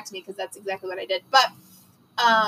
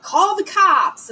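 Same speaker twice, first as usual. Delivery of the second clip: high, slow mock yell at the manager; mild mock yell; retold yell; 8 semitones higher, 4 dB louder, much slower than usual. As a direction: shout it out slowly, half acted. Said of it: "started screaming at the manager".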